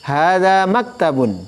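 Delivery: slow Hadza maktabun with Arabic sounds; teacher demonstrating Arabic pronunciation; Arabic accent model. Shown as a demonstration. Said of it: "logat Arabnya".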